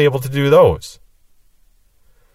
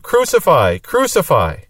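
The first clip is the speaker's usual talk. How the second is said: a higher, half-acted cry of crucify; mock crowd cry; 4 semitones higher, slower than usual. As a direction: lightly voice the mob crying out Crucify. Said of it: "So they just cried out".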